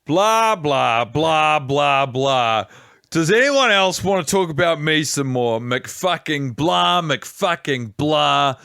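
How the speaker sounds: a lightly voiced self-absorbed Carrie; Carrie Bradshaw. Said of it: "I'll do an impression of Carrie Bradshaw".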